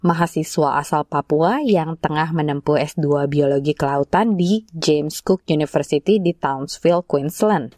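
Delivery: measured scripted report read; radio feature intro. Real, not acted. Host introducing a student's profile to listeners, scripted presenter read.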